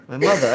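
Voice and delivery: "mother" with a clear TH; TH pronounced. Shown as a demonstration. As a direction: hit the TH in "mother". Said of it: "I say T H".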